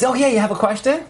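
lightly acted, high, friendly question; cheerful teacher. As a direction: brightly invite the student's question, imitating a smiling teacher. Retold smiling rabbi takes question.

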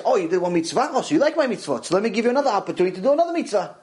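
a cheerful, quick God-voice, only a hint of character; voicing Hashem. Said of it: "So Hashem is, says".

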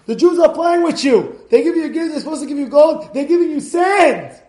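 high, loud raging accusation; furious emperor. Retold or imitated. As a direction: roar like an insulted emperor. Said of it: "The emperor says".

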